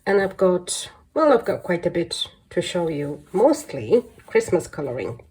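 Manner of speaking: stuffy, blocked-nose voice; congested voice. Real, not acted. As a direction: speak through a congested nose. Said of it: "apologize for my voice".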